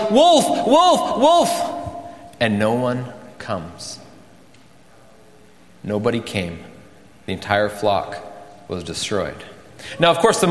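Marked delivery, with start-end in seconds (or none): 0.1-1.8 very high, spaced cries of alarm; acted yell. Boy facing real wolves calls for help, acted yelling. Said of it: "and he yells". 2.4-9.4 soft, low, halting narration; sombre hush. A narrator's reading. Preacher telling the story's grim ending, sombre hush.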